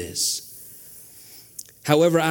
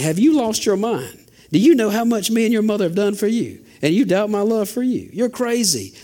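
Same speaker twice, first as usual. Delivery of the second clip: higher, half-joking exasperated dad; righteous indignation; 6 semitones higher than usual. Retold or imitated. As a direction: play the fed-up father scolding his kids. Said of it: "That's a righteous indignation".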